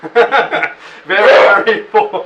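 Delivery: laughing through the words; slow, cracking up while talking. Real, not acted. Laughing at the full mouth.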